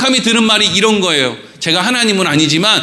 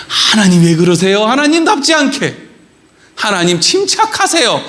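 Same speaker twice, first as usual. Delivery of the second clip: casual scolding tone. Retold or imitated. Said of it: "막 이런 어투로".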